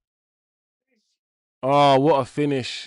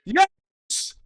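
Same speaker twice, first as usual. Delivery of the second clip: screaming much higher and louder; full-throated celebration yell; goal celebration; 4 dB louder, slower than usual. Real, not acted. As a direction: erupt in pure joy at the goal. Team scores, celebrating on stream.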